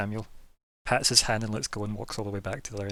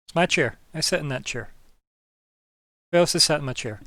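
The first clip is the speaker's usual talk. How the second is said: possessive indignation; 5 semitones higher, 6 dB louder than usual. Acted. Vampire defends his chair.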